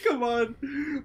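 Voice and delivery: high, laughing scoff; laughing mockery. Guard laughing off the player's rant. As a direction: laugh the insult off.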